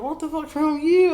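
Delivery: high, loud gruff demand; dad's shout. Retold or imitated. Dad coming out to his yelling son, loud shout. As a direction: bark at your yelling son. Dad hears him yell.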